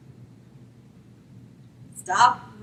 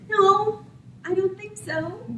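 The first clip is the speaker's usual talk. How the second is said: God saying no; 9 semitones higher, slower than usual. Acted. God refuses Balaam's request.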